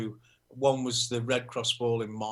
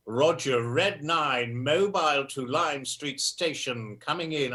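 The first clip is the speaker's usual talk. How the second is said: lightly imitating a clipped RAF radio call; a hint of a wartime pilot on the radio; dad doing a mild pilot radio voice; Spitfire pilot; 3 semitones higher, slower than usual. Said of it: "used to sound like a Spitfire pilot".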